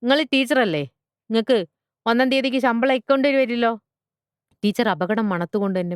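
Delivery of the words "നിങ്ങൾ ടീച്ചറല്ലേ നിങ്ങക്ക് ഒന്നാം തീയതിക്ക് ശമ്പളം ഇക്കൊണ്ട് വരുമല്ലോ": high-pitched, pointed challenge; indignant retort. Acted. Butcher father challenges salaried teacher, indignant. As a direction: throw it back at them, needled.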